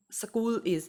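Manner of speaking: school said as səkul with an extra vowel; wrong Indian school with inserted vowel. Shown as a demonstration. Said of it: "school is not the correct".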